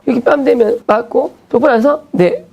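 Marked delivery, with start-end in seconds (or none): 2.1-2.4 a high, tiny yes sir; squeaked yes. Retold or imitated. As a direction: answer like a cowed pupil. Slapped pupil answering meekly.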